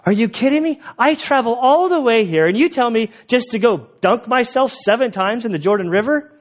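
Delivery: high-pitched, incredulous mock fury; furious outburst. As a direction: rant like an insulted general who travelled for nothing. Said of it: "gets furious".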